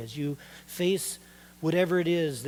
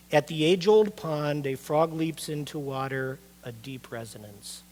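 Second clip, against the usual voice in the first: haiku recital; 2 semitones lower, 4 dB louder than usual. Shown as a demonstration. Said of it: "here's a haiku for you".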